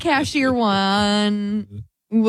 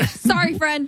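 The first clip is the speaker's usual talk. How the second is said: higher, sweetly polite sorry; sweet apology; 6 semitones higher, slower than usual. Retold or imitated. Speaking to a mannequin, a high sweet apology. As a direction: chirp it kindly to the mannequin. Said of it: "and say".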